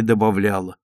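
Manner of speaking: plain reading voice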